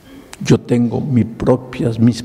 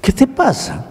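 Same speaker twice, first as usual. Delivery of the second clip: rising indignant challenge, pitch climbing; preacher losing his patience, pitch climbing on the challenge; stern rebuke; 8 semitones higher than usual. Retold or imitated. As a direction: lose patience with the young man, voice going up. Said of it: "le dije".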